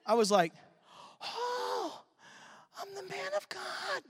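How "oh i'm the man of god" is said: meek protest. Retold or imitated. Protesting to the policeman.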